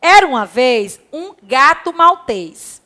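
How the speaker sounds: slow, careful reading of the first line; slow classroom read-aloud. Shown as a demonstration. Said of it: "Leia o texto a seguir".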